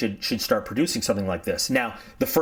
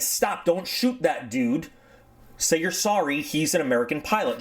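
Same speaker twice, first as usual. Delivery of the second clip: urgent order; 5 semitones higher than usual. Retold or imitated. Headquarters orders halt to execution.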